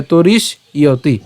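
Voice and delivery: "তরিশ ইয়তি" slowly broken after the sh; split pronunciation. Shown as a demonstration. Teacher breaking the word up for learners, "তরিশ ইয়তি" in two parts. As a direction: stop on sh in "তরিশ ইয়তি", then say ya-ti. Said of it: "তরিশ মূর্ধন্য ষ পর্যন্ত উচ্চারণ".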